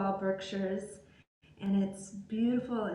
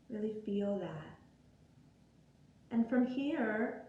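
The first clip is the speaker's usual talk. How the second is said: guided meditation. Acted. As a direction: guide them gently into breath and body, unhurried. Leads guided breathing meditation.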